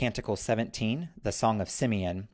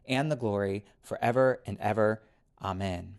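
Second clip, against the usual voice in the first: prayer. Acted. Lord's Prayer recited.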